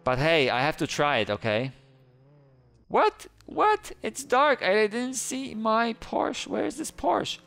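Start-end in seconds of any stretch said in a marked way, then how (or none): 2.9-7.4 suddenly alarmed, where's the car; startled confusion. Real, not acted. Player alarmed to find the dark game empty, high startled voice.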